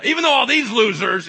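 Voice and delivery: high, very loud mock bragging; scornful boast. Peter puts down fellow disciples before Jesus, boastful shout. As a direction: shout it over the others' heads.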